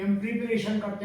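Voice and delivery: प्रिपरेशन said with a short "pri"; प्रिपरेशन as pri-pa-re-shan, the common mistake; wrong pronunciation shown. Shown as a demonstration. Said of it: "वो इस तरीके से प्री करके बोलते हैं". (गलत उच्चारण: प्रिपरेशन)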